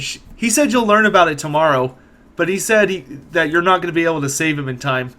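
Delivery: a touch of upbeat girl, blithe about bad news; unfalteringly positive girl. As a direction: lightly play a girl cheerfully passing on grim news. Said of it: "her positivity is completely unfaltering".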